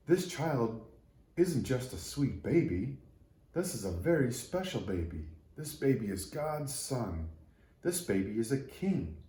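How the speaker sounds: a lightly voiced tree realizing a miracle; awed little tree.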